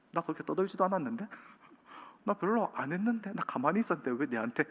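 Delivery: hurt muttering. Retold or imitated. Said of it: "어떤 마음이 들까요?".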